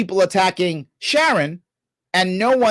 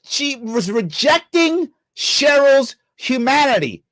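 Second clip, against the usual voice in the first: incredulous mock repeat; 3 semitones higher than usual. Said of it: "do you hear this bullshit".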